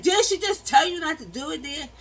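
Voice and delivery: high, loud, indignant doctor questioning the nurse; angry doctor. Retold or imitated. Doctor confronting the nurse in surgery, indignant and loud. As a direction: demand it like an outraged doctor.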